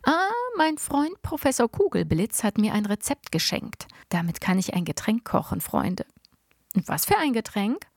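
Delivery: lightly voiced, cheerful old grandpa; a hint of a boastful old man sharing his secret. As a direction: play the proud inventor grandpa, lightly. Grandpa explains his recipe.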